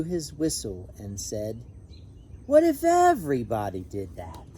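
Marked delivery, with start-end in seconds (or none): 2.5-4.5 louder call across the pool; lightly voiced lifeguard, louder. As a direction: call out like a lifeguard after the whistle. Lifeguard blows whistle, scolds.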